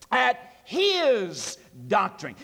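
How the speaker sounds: slow, deliberate at his doctrine with his pressed hardest; stress on his. Shown as a demonstration. Preacher slowing down to point out his in the verse. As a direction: draw out his so they hear it. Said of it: "And I put the emphasis on his".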